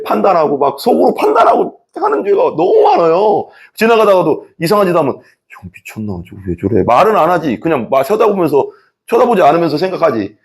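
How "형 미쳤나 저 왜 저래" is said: low, much softer private grumble; judging a stranger in your head, low and soft; muttered thought. Retold or imitated. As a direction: mutter it under your breath.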